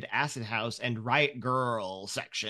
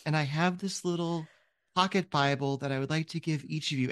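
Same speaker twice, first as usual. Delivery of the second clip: put-on higher, sweet little-girl voice; a little girl preaching to strangers, higher and eager; ten-year-old girl; 3 semitones higher than usual. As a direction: play an earnest child handing out Bibles. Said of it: "ten-year-old girl walks up to you".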